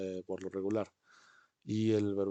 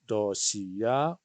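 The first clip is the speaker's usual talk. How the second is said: model word. Shown as a demonstration. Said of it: "Repiten ahí".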